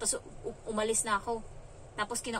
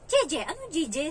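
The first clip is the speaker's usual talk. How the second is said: higher, puzzled questioning echo; startled echo; 5 semitones higher, 4 dB louder, slower than usual. Retold or imitated. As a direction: throw the word back, baffled. Her startled echo to child. (gulat na pagtatanong)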